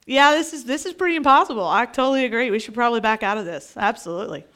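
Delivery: low, soft, mumbled backing out; mock defeatist going along; resigned agreement. Imitates believers giving up in meeting.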